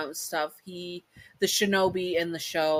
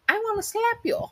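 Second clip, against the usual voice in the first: mock exasperation. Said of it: "And I'm like".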